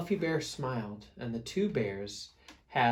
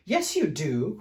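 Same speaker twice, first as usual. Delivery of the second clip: cried; 3 semitones higher, 5 dB louder than usual. Acted. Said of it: "cried Big Fluffy Bear".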